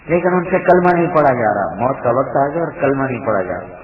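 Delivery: loud preacher emphasis, then easing down; emphatic preaching. Real, not acted. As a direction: lift the voice high to stress the drama. Preacher stresses the dying companion.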